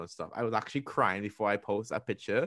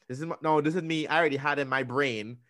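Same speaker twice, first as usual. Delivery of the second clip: ordinary talk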